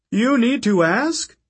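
high, loud, slow outraged retort; furious scorn. Acted. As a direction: snap back in rage. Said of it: "His face was red with rage".

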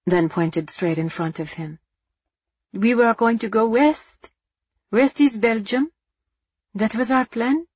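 lightly voiced earnest boy; a hint of a lost child explaining; young boy voice. Pierre's lines as a boy.

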